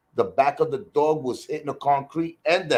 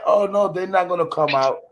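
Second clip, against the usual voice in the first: higher, breezy dismissal; mock dismissive lady; 6 semitones higher than usual. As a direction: brush it off like the careless owner. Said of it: "The lady like".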